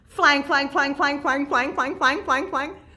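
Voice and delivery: very fast, rapid-fire, rattled-off word repetition. Leading a clapping game, the speaker says the word as fast as they can. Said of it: "Let's say flying as fast as we can".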